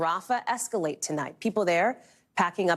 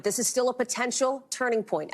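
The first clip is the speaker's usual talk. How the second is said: "potential" picked out with raised pitch; stress on POTENTIAL; 5 semitones higher than usual. Real, not acted. Anchor cautioning viewers about a ceasefire deal, stress on "potential". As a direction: lean on the word "potential". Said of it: "Emphasis on the word potential".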